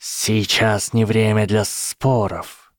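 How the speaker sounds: slow and even; calm. Acted. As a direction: stay calm and measured. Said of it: "спокойно заметил Гарри".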